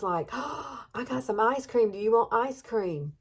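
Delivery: a husband coaxing cheerfully; voicing the husband's eager offer. Husband offers dying mother ice cream.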